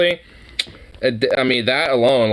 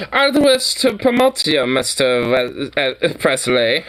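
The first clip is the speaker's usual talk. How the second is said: imitating German accent. Friend imitates Tom Hanks's German accent for laughs. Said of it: "with that accent".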